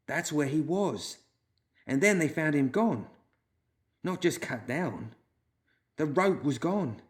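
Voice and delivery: a woman recounting a ghost story; Red Kate, lightly voiced. A narrator's reading.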